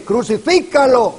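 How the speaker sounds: a high, loud cry of the crowd; mob shout. Retold or imitated. The crowd shouting at Jesus, loud and high. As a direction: shout it like the mob calling for death. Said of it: "Los judíos están gritándote".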